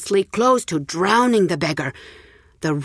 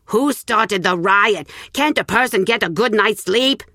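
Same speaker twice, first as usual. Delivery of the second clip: put-on grumpy rich old woman; 4 semitones higher, 3 dB louder than usual. Old woman woken by the noise, cranky and loud. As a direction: bark at the door as if woken too early.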